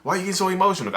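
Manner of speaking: mock angry yelling. Narcissist goes at crying partner, in a mock high-pitched yell. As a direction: imitate an exasperated narcissist scolding someone in tears. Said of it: "They'll start yelling and screaming at you".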